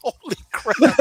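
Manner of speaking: high, loud burst of amazement; sudden stunned holy crap; amazed exclamation. Retold or imitated. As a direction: blurt it out, floored by the voice reply.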